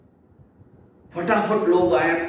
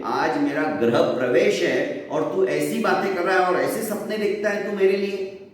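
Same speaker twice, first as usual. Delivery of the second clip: a fuming woman, somewhat higher, threatening; fuming threat; 3 semitones higher than usual. Acted. Chaudharani threatens Dagdu in a fuming rage. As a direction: huff and threaten him, proud of her clan. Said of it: "फनफनाती हुई वो चली गई".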